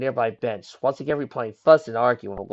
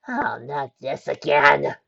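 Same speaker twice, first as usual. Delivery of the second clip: yelled; 2 semitones higher, 3 dB louder, much slower than usual. Acted. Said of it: "Nix yelled".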